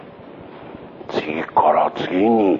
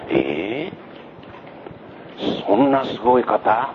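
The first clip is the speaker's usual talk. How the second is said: astonished crowd; 4 semitones higher, 3 dB quieter, much slower than usual. Acted. Crowd astonished at John's words.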